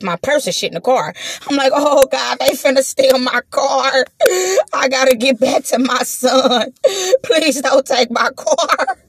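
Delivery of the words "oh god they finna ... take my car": half crying, begging; retold crying plea, slowing at the end; mock tearful plea. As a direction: whine it like you're about to cry. Retold panic about her car.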